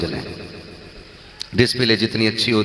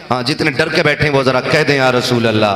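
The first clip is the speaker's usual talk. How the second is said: calling out to the crowd. Real, not acted. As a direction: rouse the crowd to shout back. Preacher calls crowd to respond. (भीड़ से ज़ोर से पुकारकर जवाब माँगना)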